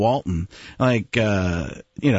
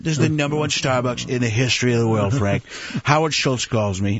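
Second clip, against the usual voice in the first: Trump voice; 3 semitones lower than usual. Retold or imitated. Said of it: "He's doing that the whole time".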